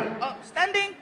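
high, soft playing-dumb answer; mock innocent. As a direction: act innocent for the cop.

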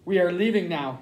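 halting, with long pauses between restarts; understated struggle to speak; voice breaking. A narrator's reading. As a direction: falter on the first word before getting it out. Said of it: "his voice breaking over the last few words".

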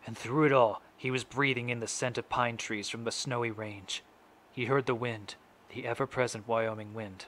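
measured, grave courtroom statement with deliberate pauses; a grieving father's address, restrained and firmly projected; dramatic monologue. Acted. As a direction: recite it solemnly, phrase by phrase.

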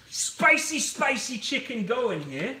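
hammed-up mom cooing over the pan; mock mom voice. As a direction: play the doting mom for a moment, half joking. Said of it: "I'm acting like a complete mom".

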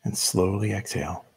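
measured meditation guide with long pauses; unhurried instructions, leaving room to breathe between phrases; guided meditation. Real, not acted. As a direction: lead them gently into stillness, phrase by phrase.

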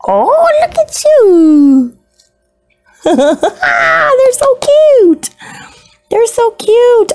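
very high, slow squeal with laughter; slow, high squeal over something adorable; laughing squeal. Real, not acted. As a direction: gush and laugh helplessly. Gushing over isopods.

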